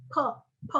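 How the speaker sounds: P with a small puff of air; aspirated P. Shown as a demonstration. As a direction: let a little air out on P. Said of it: "ada udara kecil".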